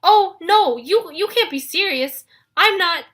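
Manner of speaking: high, loud stammering panic; high loud frantic protest; horrified. Acted. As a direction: squeal in horror. Grover horrified at being bride.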